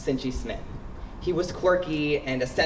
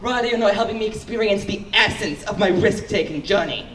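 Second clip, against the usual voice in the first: higher, louder hammed-up eccentric friend; mock friend; 4 semitones higher, 4 dB louder than usual. Cincy scolds Ryder for not joining, hammed-up. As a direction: tease the risk taker's grand speech. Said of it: "And he was like".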